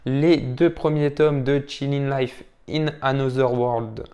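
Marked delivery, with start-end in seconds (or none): 1.6-4.0 English title in a thick French accent. Real, not acted. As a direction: read the English slowly with French sounds. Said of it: "avec mon superbe accent anglais".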